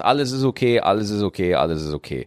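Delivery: leise werdend, beschwichtigend; beruhigend. Retold or imitated. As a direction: wie ein Elternteil, das ein Baby tröstet. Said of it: "nimmt dich in den Arm und sagt". (beruhigend ausklingendes Trösten)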